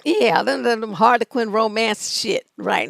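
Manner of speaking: ordinary talk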